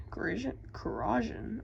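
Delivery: muttered whispered repeat; whispering. Real, not acted. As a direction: whisper the word to practise. Repeating a hard word quietly.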